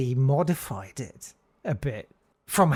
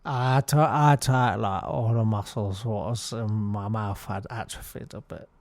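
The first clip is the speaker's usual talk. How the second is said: put-on rougher South London accent; 4 semitones lower than usual. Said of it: "not like".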